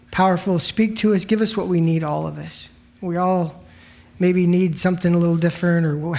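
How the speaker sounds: quick, earnest prayer before the study; opening prayer. Real, not acted. Pastor praying over the congregation before the Bible study, earnest and plain. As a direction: pray it simply, asking for what everyone needs.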